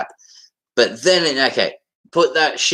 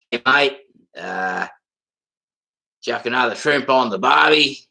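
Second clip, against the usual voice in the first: broad, stereotyped Aussie accent. Shown as a demonstration. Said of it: "how Aussie was that for you".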